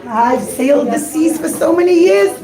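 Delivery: put-on an old sailor overjoyed; excited captain. Captain gushes over the rainbow diamond, thrilled. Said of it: "the captain was so excited".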